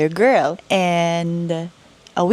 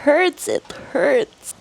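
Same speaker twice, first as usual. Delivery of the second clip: retold shout; 7 semitones higher than usual. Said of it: "and shouting".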